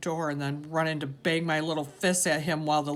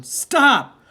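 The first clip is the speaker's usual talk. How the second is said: a high, loud cry of stop; desperate scream; 11 semitones higher, 14 dB louder than usual. A narrator's reading. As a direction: scream it to halt him. Boy screams at father strangling Loretta.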